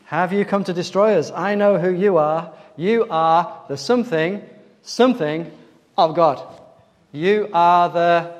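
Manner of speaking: demon's loud, emphatic challenge; crying out. Acted. Demon telling Jesus he knows him, crying out.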